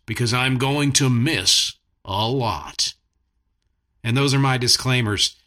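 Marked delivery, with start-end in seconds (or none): 0.1-2.9 slow, drawn-out announcer line. Pretend. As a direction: land it like a TV promo tag. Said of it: "in a T V announcer voice".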